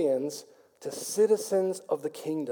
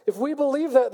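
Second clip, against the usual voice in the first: higher, pressed repeat of "if we believe that"; emphatic repeat; 6 semitones higher than usual. Shown as a demonstration. Pastor repeats to drive it home, emphatic. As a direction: punch "if we believe that" up the second time. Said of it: "repeated for emphasis".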